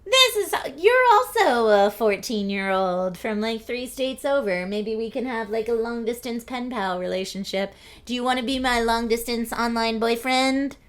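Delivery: mock gushing young teen girl. Streamer mimics her teen chat-room self, mock gushing. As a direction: lightly play your own lovestruck fourteen-year-old self. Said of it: "we were all like".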